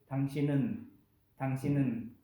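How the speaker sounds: 당신은 said low and clear as tangshinun; model 당신은. Shown as a demonstration. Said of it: "es decir". (당신은, pronunciación modelo)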